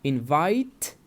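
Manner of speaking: "Invite" with a crisply released final t; final t sound. Shown as a demonstration. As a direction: demonstrate "Invite" slowly enough to hear its last t. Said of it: "the last sound is t".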